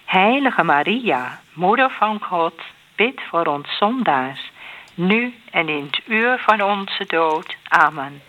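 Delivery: measured response with set pauses; prayer recitation. Real, not acted. Answering the Hail Mary with a plea to Maria, measured prayer recitation. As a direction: answer in an even rosary cadence.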